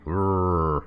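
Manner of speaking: growl. Pretend. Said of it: "here's my impression".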